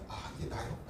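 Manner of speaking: hushed realization under the breath; whisper. Retold or imitated. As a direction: whisper it as if it just dawned on you. Inner realization spoken to self.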